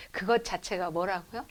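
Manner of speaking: ordinary talk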